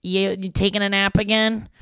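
slow, pointed mock announcement from mom; mom's annoyed tone. Mom announcing mushrooms to her napping daughter, mildly mocking. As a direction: lay on mom's disapproving tone. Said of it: "her tone was that of".

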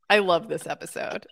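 laughing through the words; smiling voice. Real, not acted. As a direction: say it with a real smile. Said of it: "you can hear the smile in my voice".

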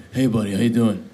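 a lightly put-on big friendly guy voice; half-hearted go at The Rock's greeting; a hint of The Rock saying hi, barely changed; bad Rock impression. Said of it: "that was a bad impression".

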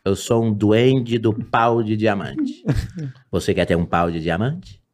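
low, slow duende voice; lightly voiced mysterious duende; low slow dwarf voice. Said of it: "Eu falo".

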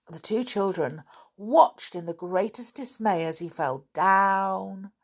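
animated storyteller with drawn-out key words; expressive storytime narration; children's story reading. A narrator's reading. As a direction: read to children, leaning on dramatic words.

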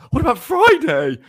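high, loud tempting voice; sly brain voice. Retold or imitated. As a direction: play the little liar in your head. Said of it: "my brain goes".

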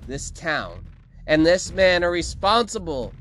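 high, loud, drawn-out outburst; exasperated villainess. A narrator's reading. Victoria scolds Felix and accuses the mayor, angry. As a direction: scold the beast, then accuse the town.

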